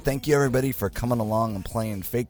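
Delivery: hoarse flu voice; rough, raspy from being sick. Real, not acted. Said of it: "raspy voice".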